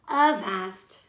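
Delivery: loud pirate bark; cried out. Acted. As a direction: snap the order at Henry. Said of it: "cried Black Ear".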